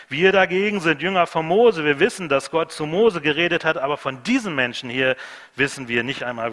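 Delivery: scornful, shouted self-righteousness; angry retort. Retold or imitated. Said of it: "Da wurden sie wütend".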